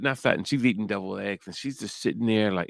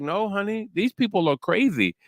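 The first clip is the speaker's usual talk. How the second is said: scolding aside; 10 semitones higher than usual. Retold or imitated. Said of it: "It's like".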